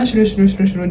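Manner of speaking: quick run-together gibberish, imitating hurried speakers; mock rapid-fire talk. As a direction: mimic someone talking too fast. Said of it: "Don't talk too fast".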